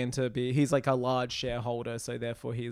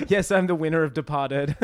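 laughing Wahlberg impression; 3 semitones higher, 3 dB louder than usual. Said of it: "So if we scripted that".

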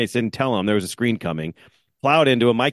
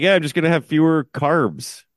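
breezy mock resolution; 6 semitones higher than usual. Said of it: "I could have, like".

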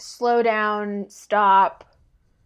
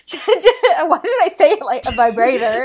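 laughing; 4 semitones higher, 8 dB louder than usual. Real, not acted. Laughs at own odd wording.

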